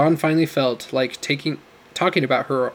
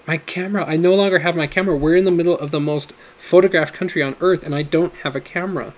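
alarmed outburst; 4 semitones higher, 3 dB louder than usual. Acted. Sudden alarm over lost camera.

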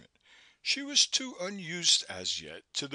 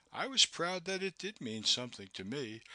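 usual speaking voice

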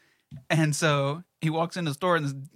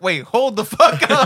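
loud, slow, drawn-out wait, hold the fuck up; disbelieving yell; 7 semitones higher, 11 dB louder than usual. Retold or imitated. Friend reacting to the kidney headline with a loud slow disbelieving yell. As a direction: shout it like you can't believe the news.

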